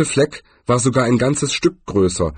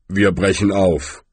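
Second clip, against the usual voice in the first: fest. Acted. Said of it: "sagte er fest".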